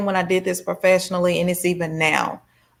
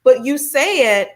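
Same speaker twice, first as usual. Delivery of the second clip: slow, higher "but you said" reproach; reproachful told-you-so; accusing friend; 6 semitones higher, slower than usual. Retold or imitated. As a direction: drag out the blame slowly. Friend throwing words back.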